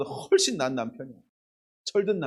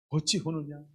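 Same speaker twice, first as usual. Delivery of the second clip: tender husband; 6 dB quieter than usual. Retold or imitated. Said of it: "이러면서 막".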